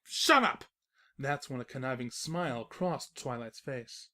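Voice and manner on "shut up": loud, high flustered shout; shouted shut up. Acted. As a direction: snap at her, caught out. Narrator caught out.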